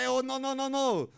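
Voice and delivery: loud high protest; mock alarmed cry. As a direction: shout the no's in panic. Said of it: "s'écria Pinguino".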